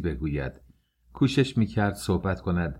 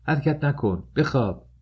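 higher-pitched urgent order; mild narrated shout, pitched up; crying out; 7 semitones higher than usual. A narrator's reading. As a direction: exclaim it as a command, without full shouting. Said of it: "کاترین فریاد زد".

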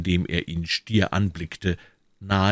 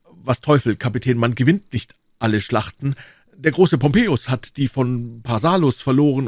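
higher, louder boastful musketeer; higher, louder, brash soldier voice; eager musketeer; 6 semitones higher, 4 dB louder than usual. Acted. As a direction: Porthos booming his excuse. Porthos recounts the fight.

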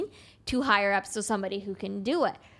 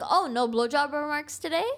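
mock public shaming; 6 semitones higher than usual. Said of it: "I'll publicly shame people like that".

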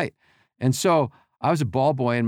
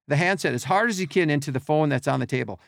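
usual speaking voice

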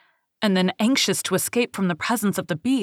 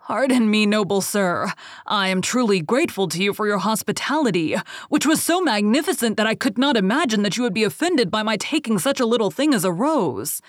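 a terrified merchant begging the beast; pleading cry; 2 semitones higher, 3 dB louder than usual. Acted.

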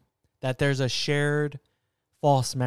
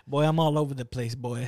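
put-on Jamaican boy. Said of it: "almost going Jamaican on us".

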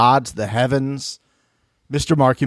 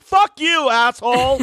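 much higher, louder mock snap at a catcaller; mock angry retort; 9 semitones higher, 3 dB louder than usual. Answering a construction worker's catcall with a mock angry snap. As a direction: fire back like you're fed up.

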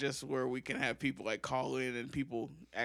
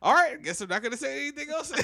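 mock sulky; 12 semitones higher, 8 dB louder, faster than usual. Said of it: "I was like".

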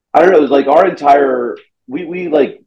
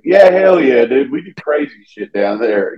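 hammed-up Southern "hell yeah" voice; Southern accent; 2 semitones higher than usual. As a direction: imitate a proud Southerner's accent. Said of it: "I didn't have a Southern accent".

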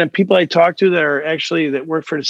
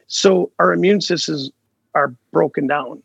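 hoarse, worn-out voice; a voice giving out; losing voice. Real, not acted. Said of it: "I'm losing my voice".

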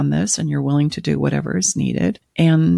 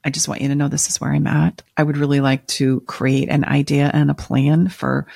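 nighttime DJ voice. Shown as a demonstration. Partner calmly inviting spouse to plan next steps, calm radio-host voice. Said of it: "that's Stacy's nighttime D J voice".

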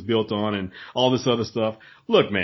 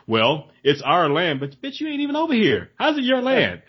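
mock British reply; 4 semitones higher than usual. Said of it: "mock British reply".

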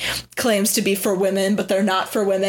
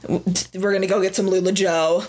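laughing. Retold or imitated. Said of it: "So we'd say, like".

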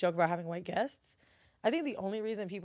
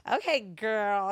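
slow mock okay girl; imitating white girl; 5 dB louder, much slower than usual. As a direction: drawl it like a homegirl. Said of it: "some people do it to me".

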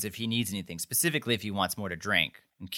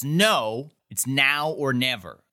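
mildly raised, emphatic quote; retold shout; 3 semitones higher, 3 dB louder, much slower than usual. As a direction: imitate her shout at half strength. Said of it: "And she shouts".

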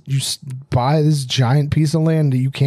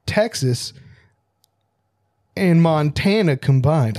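lightly voiced dramatic announcer. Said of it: "Do your announcer voice".

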